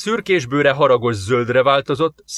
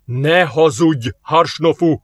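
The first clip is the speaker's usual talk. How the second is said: slow, louder shout; 4 semitones higher, 4 dB louder, slower than usual. A narrator's reading. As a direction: throw the accusation at him. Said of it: "kiáltott rá Onak". (Onák lassan, hangosan rákiált)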